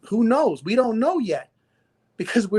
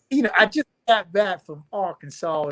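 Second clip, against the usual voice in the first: Southern accent. Real, not acted. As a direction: let the Southern accent come out. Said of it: "my southern accent came out".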